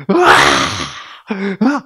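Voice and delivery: slow imitated crying wail; imitated child crying; child's wail. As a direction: wail like a tearful little girl. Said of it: "그러면서 막".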